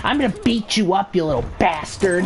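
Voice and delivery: Karen threat. Retold or imitated. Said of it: "literal definition of the word Karen".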